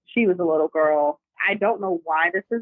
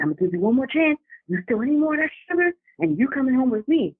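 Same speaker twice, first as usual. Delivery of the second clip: mock devil threat; 6 semitones higher, faster than usual.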